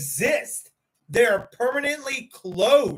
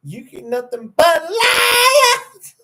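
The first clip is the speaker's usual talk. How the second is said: laughing; 9 semitones higher, 7 dB louder, slower than usual. Real, not acted. Mock accusation after laughing.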